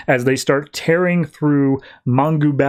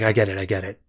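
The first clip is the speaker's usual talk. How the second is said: softer, lower, hushed reply; tender hush; 5 semitones lower, 5 dB quieter, faster than usual. Retold or imitated. Lois quietly cuts off Batman's confession, hushed and soft. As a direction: gently cut him off, quiet. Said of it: "She's like".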